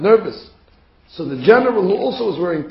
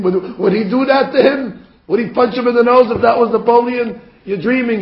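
mocking disbelief; 5 semitones higher, 4 dB louder than usual. Russians mock the suspicious officer.

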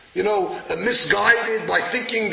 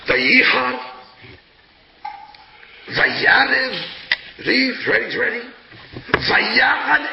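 louder, building verse words; raised volume; 4 semitones higher, 3 dB louder, slower than usual. Shown as a demonstration. Rabbi showing how he reads the verse aloud, louder. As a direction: raise the volume on each word. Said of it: "I raise the volume".

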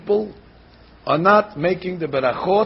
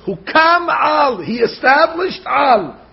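emphatic proclaim; 5 semitones higher, slower than usual. Shown as a demonstration. Rabbi proclaiming the verse to his class. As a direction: call it out like a verse.

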